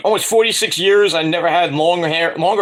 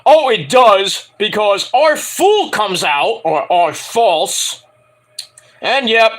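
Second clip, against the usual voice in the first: excited; 4 semitones higher, 4 dB louder, slower than usual. Real, not acted. Hyping up dramatic twist.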